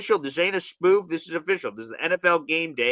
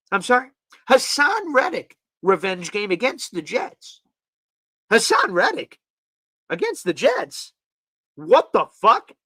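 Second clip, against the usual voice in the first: incredulous questioning, rising; can't believe what you're hearing; stunned what the fuck; disbelief; 3 semitones higher than usual. Real, not acted. Disbelief at the list.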